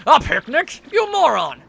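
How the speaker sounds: hammed-up villain rage; mock furious. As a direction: snap at the foolish minion. Bowser scolding minion.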